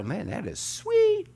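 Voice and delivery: drawn-out, high-pitched "sweet"; slow, admiring exclamation with a high squeal on "sweet"; delighted approval. Acted. Showing the congregation an admiring reaction, delighted.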